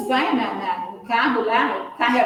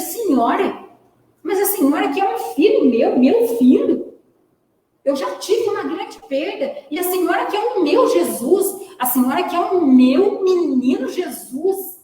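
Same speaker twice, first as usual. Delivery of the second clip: pleading father; 5 semitones higher than usual. Acted. Grieving father pleads with woman.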